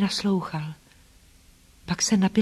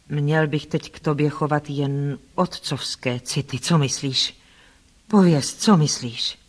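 lower, measured man's voice, testing her; lightly voiced brooding Rochester; 4 semitones lower than usual. Rochester probes whether she means only nursing, brooding. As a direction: lightly play a wary older suitor.

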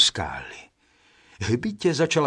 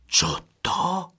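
first brother calls out, higher pitch; a raised, questioning exclamation; called out; 7 semitones higher than usual. A narrator's reading. First brother finding the laid table, calling out. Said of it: "svolal první".

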